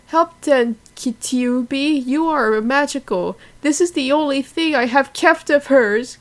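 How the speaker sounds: high, pleading cry for help. Acted. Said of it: "cried Madoka".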